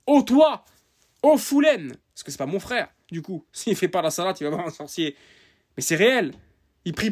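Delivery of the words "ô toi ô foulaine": high, loud call to a brother. Acted. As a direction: call him out across the room. Calling out a brother. (interpellation forte et aiguë)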